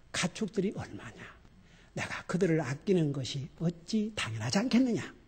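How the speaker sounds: soft, low fatherly tenderness; God answering angry Jonah softly and kindly; gentle and kind. Retold or imitated. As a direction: speak gently, like a patient father. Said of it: "인자하게".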